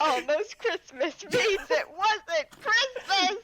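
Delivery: slow emphatic. Acted. Repeating the punchline slowly.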